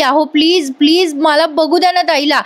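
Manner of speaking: mildly urgent begging, pitch slightly lifted; acted-out anxious request; imitated pleading. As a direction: plead to see a sister. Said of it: "आता ही request करत असते".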